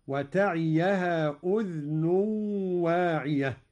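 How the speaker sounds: أذن recited udhn, dhal unvowelled; light dhal. Shown as a demonstration. Teacher demonstrating Qalun's reading: أذن with silent dhal. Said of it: "هكذا".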